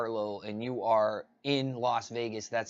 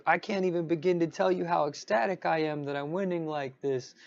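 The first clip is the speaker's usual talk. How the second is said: hammed-up Southern drawl, higher and louder, faking big excitement; mock Southern drawl; 7 semitones higher, 6 dB louder than usual. Vlogger mocking a coin pusher host's fake excitement in an exaggerated Southern drawl. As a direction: imitate a coin pusher host's put-on Southern drawl, overselling every win. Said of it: "Southern drawl sounding voice".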